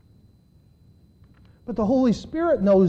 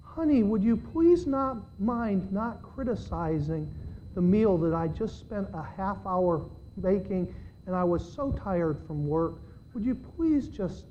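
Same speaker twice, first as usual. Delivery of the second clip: calm; 6 dB quieter than usual. Retold or imitated. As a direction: ask sweetly, holding back irritation. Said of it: "I calmly said to him".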